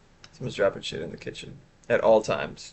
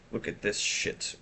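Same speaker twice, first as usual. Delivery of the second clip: whispered, slower and much softer; hushed repeat; 2 semitones lower, 11 dB quieter than usual. Shown as a demonstration. Streamer repeating herself to chat in a whisper. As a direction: drop to a breathy aside.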